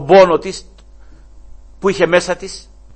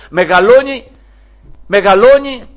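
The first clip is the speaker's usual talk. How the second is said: swelling louder and higher on each μεγαλώνει; building loud repetition; 8 semitones higher, 11 dB louder than usual. Acted. Preacher swelling on a child growing up. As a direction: let it grow and soar.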